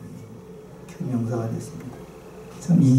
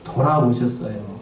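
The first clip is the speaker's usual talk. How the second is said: 돌아보셨어요 drawn out slowly, each syllable weighted; slow down and lean on 돌아보셨어요; slow emphatic stress; 5 semitones lower than usual. Shown as a demonstration. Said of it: "돌아봤다는 데다가 동그라미를 치셔요".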